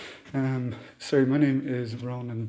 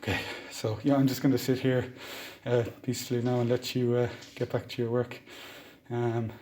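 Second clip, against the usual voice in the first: through a mask; 5 dB quieter than usual. Real, not acted. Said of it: "I'll leave the mask on while I speak".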